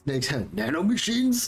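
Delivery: hissing snake impression, lightly done. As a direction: hiss it like a cartoon snake. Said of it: "worst, uh, snake impression you've ever heard".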